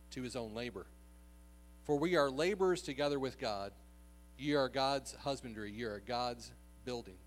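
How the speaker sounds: formal, unhurried scripture recitation; scripture reading. Acted. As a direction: read the verses out deliberately to a congregation. Reads scripture aloud to congregation.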